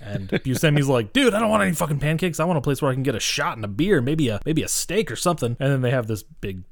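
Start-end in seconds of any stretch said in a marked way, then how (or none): 1.1-5.5 quick, higher-pitched mock complaint; retold griping. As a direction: rattle off an exasperated gripe. Acts out Buscemi's complaint about pancakes.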